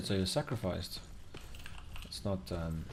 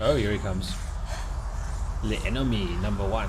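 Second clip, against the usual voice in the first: excited announcing; 5 dB louder than usual. Real, not acted. Boss appears, mock announcing.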